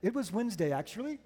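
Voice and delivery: lightly imitated British accent, softly spoken; a soft, polite correction in a mock British accent. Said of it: "he says in his British accent".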